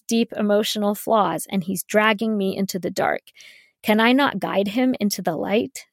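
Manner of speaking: mildly mock-dramatic reading; facetious, mocking tone. Podcaster reading bad romance writing aloud, facetious and mocking. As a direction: read the overwrought quote with understated mockery. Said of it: "read that with that facetious and mocking tone".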